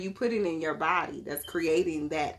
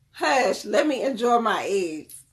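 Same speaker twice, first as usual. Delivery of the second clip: mock exasperated; 4 semitones higher, 5 dB louder than usual. Mother retelling her reply to son.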